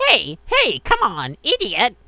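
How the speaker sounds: high, loud taunting yell; Flowey yelling. Retold or imitated. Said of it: "he'll go".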